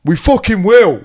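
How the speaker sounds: laughing swear. Retold or imitated. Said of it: "I've never heard you swear".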